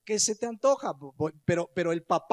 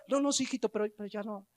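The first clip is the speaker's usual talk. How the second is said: caving parent; 5 dB quieter, much faster than usual. Retold or imitated. Parent caving to crying child.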